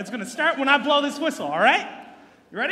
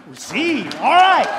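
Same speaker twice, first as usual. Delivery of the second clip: loud call; 11 dB louder, slower than usual. Real, not acted. Referee calling out to crowd.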